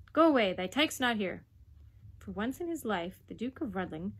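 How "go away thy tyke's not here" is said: put-on loud broad Yorkshire boy; boy guarding the dog in Yorkshire dialect. A narrator's reading. Boy shouting at the Duke in broad Yorkshire.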